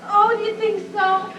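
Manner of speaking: teary. Acted. Aunt near tears.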